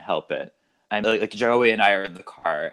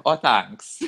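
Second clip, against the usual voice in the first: lightly Californian reply; a touch of California vowels; California accent. Retold or imitated. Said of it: "that was my California coming out".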